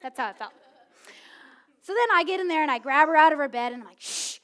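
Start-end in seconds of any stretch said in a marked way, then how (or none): 4.0-4.4 stern whisper. Retold or imitated. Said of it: "I'm just mad".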